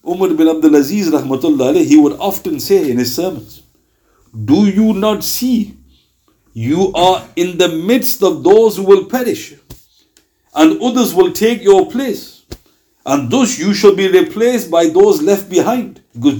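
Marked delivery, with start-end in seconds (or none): 4.4-16.0 slow solemn recitation. Acted. Solemn quoted sermon of Umar.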